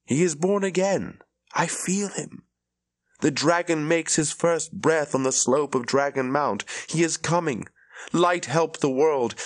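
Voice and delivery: a foretelling pouring out of her; prophetic trance. Acted. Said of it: "gifted in foretelling, spoke it to me".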